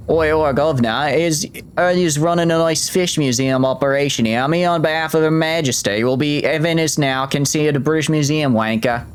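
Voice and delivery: hammed-up London geezer voice; playful fake British accent. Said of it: "I think that was a pretty good British accent".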